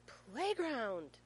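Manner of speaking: put-on high, loud, drawn-out kid demand; insistent child's yell. A narrator's reading. Small son overrules dad's shopping plan, loud insistence. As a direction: holler it like a toddler insisting. Finn insists, dad gives in.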